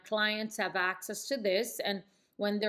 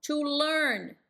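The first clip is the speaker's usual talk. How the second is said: scripted sound; 6 semitones higher than usual. Shown as a demonstration. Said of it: "sounding scripted".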